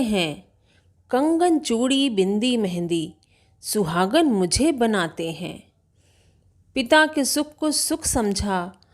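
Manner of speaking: measured, plaintive verse, line by line; lightly performed lament in rhythmic verse; poem recitation as wronged daughter. Acted. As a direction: recite as a girl's soul telling her sorrow. Recites the dead girl's soul replying.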